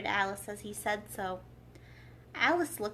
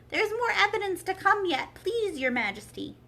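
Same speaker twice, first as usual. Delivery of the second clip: much higher, eager rabbit voice; hurried rabbit; 9 semitones higher, 5 dB louder than usual. A narrator's reading. White Rabbit interrupting the King in a hurry, high. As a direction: rush in breathlessly. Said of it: "jumping up in a great hurry".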